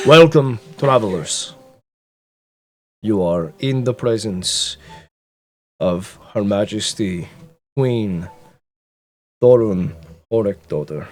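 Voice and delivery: loud, formal royal announcement; booming herald voice. Acted. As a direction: boom it out like a herald to the hall. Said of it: "Javi says in a booming voice".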